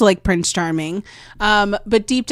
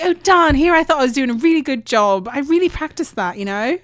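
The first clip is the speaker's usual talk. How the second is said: put-on British accent; 5 semitones higher than usual. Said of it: "I turn to a British woman".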